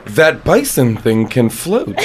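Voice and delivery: low, slow deadpan imitation; deadpan movie quote. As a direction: quote the girl slowly in a low voice. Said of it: "and the girl goes".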